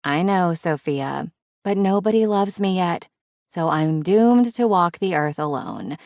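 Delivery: playfully melodramatic lament; hammed-up tragic complaint; mock self-pity. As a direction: play up being doomed and lonely. Mock self-pity to teasing Sophia.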